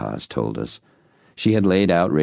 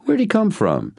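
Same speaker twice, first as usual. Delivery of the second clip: amused; 4 dB louder than usual. A narrator's reading. Amused question to the room.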